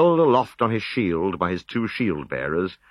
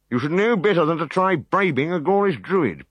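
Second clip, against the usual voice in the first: a hint of a stern druid; 10 semitones higher than usual. A narrator's reading. Druid scolds.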